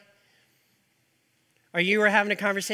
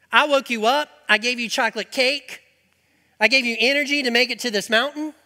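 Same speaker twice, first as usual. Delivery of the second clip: lively voice of God; 3 semitones higher, 5 dB louder than usual. Acted. Preacher voicing God, louder.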